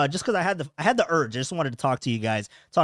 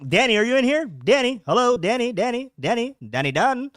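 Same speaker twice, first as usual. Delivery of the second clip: calling out; 9 semitones higher, 5 dB louder than usual. Real, not acted. Calling for viewer in chat.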